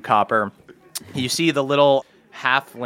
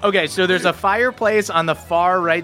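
game master narration. Acted. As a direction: paint the tavern scene calmly. GM sets the tavern scene.

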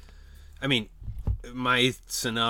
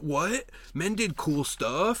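mock protest; 6 semitones higher, slower than usual. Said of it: "they're like".

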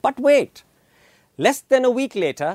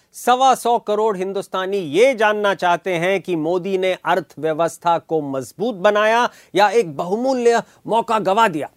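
paraphrasing Modi; much faster than usual. Retold or imitated. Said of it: "to paraphrase Prime Minister Modi himself".

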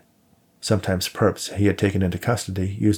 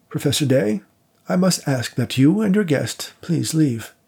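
stern dismissal; 7 semitones higher than usual. A narrator's reading.

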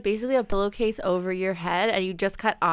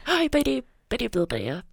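speaking on inhale; faster than usual. Shown as a demonstration. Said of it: "you're supposed to, like, mummer".

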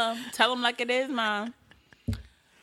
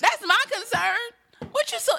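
surprised; 12 semitones higher than usual. Real, not acted. Reacting surprised, high.

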